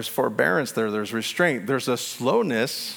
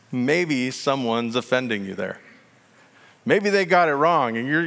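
ordinary delivery

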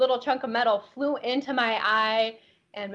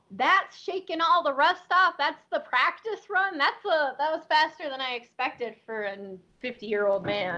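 teasing; 4 semitones higher than usual. Retold or imitated. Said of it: "I turned to him and said".

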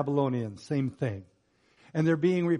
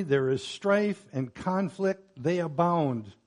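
raised, emphatic plea to God; prophet's complaint; 3 semitones higher, 3 dB louder than usual. Acted. Prophet asking God why He tolerates wrong, emphatic complaint. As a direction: press each grievance with deliberate weight. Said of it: "this is what he is saying now".

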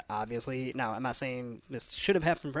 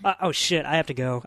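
mock announcement; 5 semitones higher, 10 dB louder than usual. Mocking the grieving scene dialogue.

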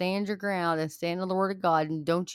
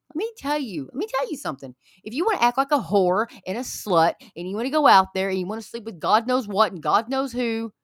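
real anger; 3 semitones higher, 4 dB louder, faster than usual. Real, not acted. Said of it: "if I sound angry, it's because I am".

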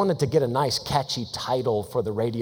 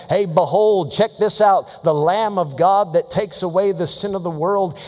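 fervent preaching; 5 semitones higher, 5 dB louder than usual. Acted. Preaching John's call.

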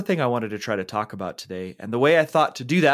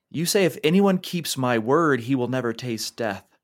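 mocking angry quote; 2 semitones higher than usual. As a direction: throw his own words back at him. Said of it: "upset and angry at those words".

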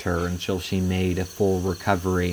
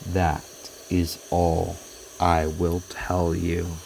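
unearthly voice; 2 semitones lower than usual. Acted. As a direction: speak as a chilling ghost from beyond. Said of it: "the spectral voice uttered these chilling words".

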